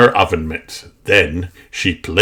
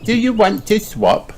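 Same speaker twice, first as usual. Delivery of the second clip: high hopeful piggy question; squeaky child's offer; Peppa voice; 14 semitones higher than usual. A narrator's reading. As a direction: ask it sweetly like Peppa. Peppa asks Mister Bull.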